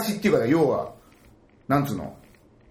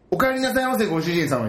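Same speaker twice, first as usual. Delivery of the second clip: maid greeting; 5 semitones higher than usual. Retold or imitated. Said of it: "みたいな、ベタなね".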